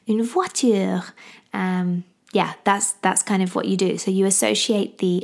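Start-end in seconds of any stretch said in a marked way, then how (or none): 0.1-1.0 English speaker's attempt at a French accent. Shown as a demonstration. Mum giving baby Papa's word for car, French accent. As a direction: say "une voiture" with French sounds. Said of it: "sorry about my French accent".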